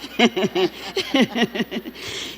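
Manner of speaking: sustained chuckling; long real laugh, tailing off; laughter. Real, not acted. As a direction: giggle along with the listener. Laughs with the listener.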